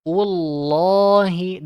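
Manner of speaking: Ullahi slow, two beats; long Ullahi. Shown as a demonstration. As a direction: Ullahi held for two counts. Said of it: "Dua harokat". (Ullahi dua harakat)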